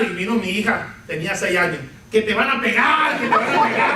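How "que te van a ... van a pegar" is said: put-on teasing little girl. Little daughter teasing brother.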